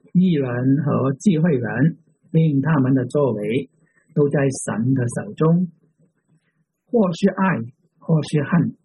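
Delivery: measured reading aloud with pauses between phrases; slow scripture reading. Real, not acted. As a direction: read it out slowly, phrase by phrase. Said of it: "慢慢地读这一章".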